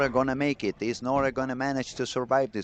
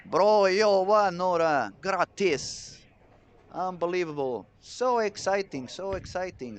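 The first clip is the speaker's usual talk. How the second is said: higher, louder, whooping with joy; excited shout; 7 semitones higher, 3 dB louder than usual. Real, not acted. Commentator cheering as the bowler makes the final, excited shout. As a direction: let it burst out at the strike. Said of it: "I get really excited".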